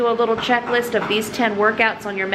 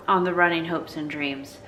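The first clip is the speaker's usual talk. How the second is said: lispy, whitening strips; 6 semitones lower, 5 dB quieter than usual. Real, not acted. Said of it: "If I sound lispy".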